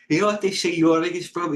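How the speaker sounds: talking through a yawn; words stretched by a yawn. Real, not acted. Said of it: "I'm sorry about that if I'm yawning".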